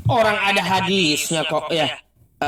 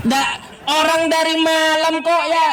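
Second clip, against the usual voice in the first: laughing; 8 semitones higher than usual. Real, not acted. Amused aside in argument.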